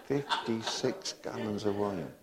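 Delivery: chuckling through the repeat; laughing. Real, not acted. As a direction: laugh as you say it again.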